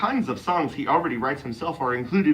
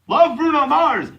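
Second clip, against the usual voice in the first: high, slow, drawn out title read; mock dramatic; 14 semitones higher, 7 dB louder, slower than usual. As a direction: ham up the quoted title. Mock-reading a bad article aloud.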